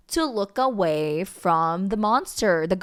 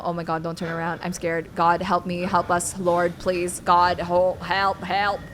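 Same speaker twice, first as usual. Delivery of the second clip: frightened pleading; 5 semitones lower, 5 dB quieter than usual. Real, not acted. Frightened praying while watching.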